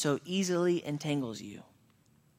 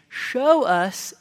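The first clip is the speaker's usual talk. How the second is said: loud, higher demanding cry; loud scornful demand; demanding taunt; 8 semitones higher, 8 dB louder than usual. Retold or imitated. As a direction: demand the sign outright. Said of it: "And they are saying".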